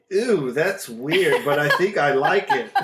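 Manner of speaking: grossed-out ew. Retold or imitated. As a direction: say "Ew" long and disgusted, then laugh. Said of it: "It wasn't ew".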